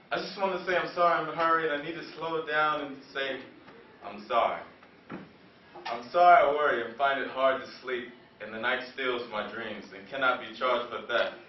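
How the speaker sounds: restrained poetic apology; spoken-word poem. Acted.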